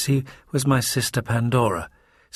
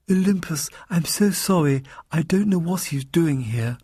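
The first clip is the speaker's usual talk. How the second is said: higher, exasperated woman's voice; groaning sister; 6 semitones higher than usual. A narrator's reading. Pandora apologising for her brother's arrival, higher groan. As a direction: groan it out, pitched up. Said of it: "Pandora groaned".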